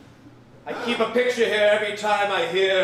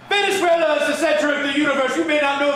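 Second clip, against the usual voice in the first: fast, loud, higher declaration; fervent proclamation; 5 semitones higher, 4 dB louder, much faster than usual. Acted. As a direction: proclaim it like prophecy. Legend proclaimed in fervour.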